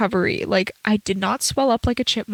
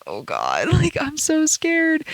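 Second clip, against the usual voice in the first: laughing fear; 6 semitones higher, slower than usual. Retold or imitated. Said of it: "And I was like".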